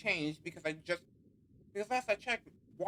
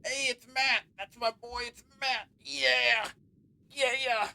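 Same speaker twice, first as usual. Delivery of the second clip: excited cheer; 8 semitones higher, 5 dB louder, slower than usual. Acted. Matt character cheering his name.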